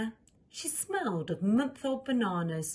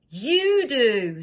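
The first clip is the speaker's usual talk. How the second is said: firm scold; 4 semitones higher, 10 dB louder than usual. Acted. All agree, scolding.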